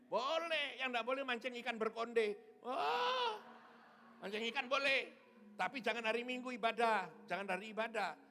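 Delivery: high and forceful, teasing the crowd; emphatic exhortation. Real, not acted. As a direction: belt it out to the congregation. Emphatic playful exhortation to congregation.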